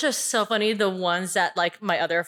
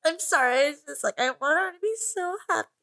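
tearful; 5 semitones higher than usual. Acted. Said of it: "Just got really sad".

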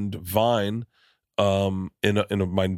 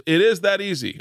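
yoga teacher voice; 10 semitones higher, 3 dB louder than usual. Retold or imitated. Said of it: "He goes".

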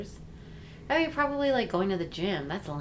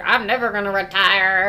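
put-on old man voice; 5 dB louder than usual. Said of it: "that was my old man impression".

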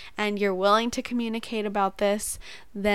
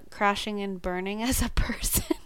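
rueful laugh. Real, not acted. Laughing at own breakdown.

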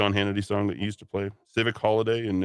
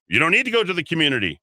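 higher, louder angry rebuttal; indignant retort; 7 semitones higher, 4 dB louder, faster than usual. Real, not acted. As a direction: snap back at the quote. Host retorts to mocked quote.

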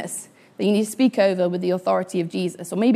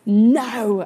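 firm, louder "No", stopping short of a yell; retold shout; 3 semitones higher, 6 dB louder than usual. Sister ordering off a charging bull, mock shout. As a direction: mildly imitate a commanding shout. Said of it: "she shouted at the top of her five-foot-two lungs".

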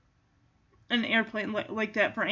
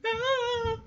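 mock frightened whimper; 11 semitones higher, 4 dB quieter than usual. Imitating frightened dog's look.

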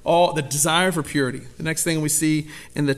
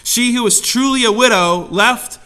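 slow, weighty, louder Bible reading; scripture reading; 5 dB louder, slower than usual. Acted. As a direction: read each phrase slowly with gravity. Reads scripture solemnly.

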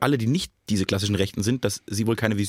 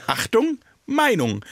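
jingle voice; 10 semitones higher, much slower than usual. Pretend. Mock jingle announcement.

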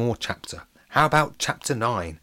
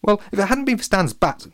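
lightly voiced dad; 11 semitones higher, 4 dB louder than usual. A narrator's reading. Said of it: "Daddy-O suggested".

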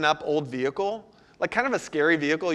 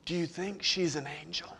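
put-on soft, timid little-girl question; young daughter; 7 dB quieter than usual. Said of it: "Sailor says".

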